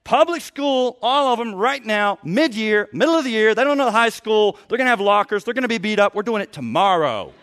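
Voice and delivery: loud, high mock rant; hammed-up angry father laying down the law; exasperated outburst. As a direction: burst in fed up and decisive. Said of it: "and just said".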